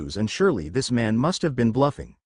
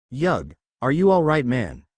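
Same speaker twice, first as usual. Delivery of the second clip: worried yell. Acted. Joey calling to Yugi after the blast, mildly worried. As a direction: check on your friend, a little alarmed. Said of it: "Joey's worried yell".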